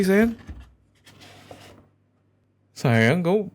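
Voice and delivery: usual speaking voice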